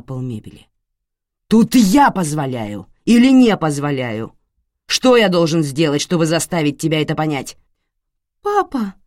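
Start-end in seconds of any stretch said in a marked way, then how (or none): 1.5-7.6 loud, menacing tirade; raging father. Acted. 8.4-8.9 put-on much higher, a little girl calling out in fear; frightened child's cry. Young daughter crying out.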